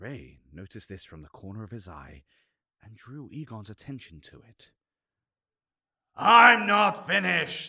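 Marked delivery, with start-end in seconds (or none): 6.2-7.7 very loud, very high bellowing roar. A narrator reads a furious man at a sentencing, bellowing. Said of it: "he bellowed".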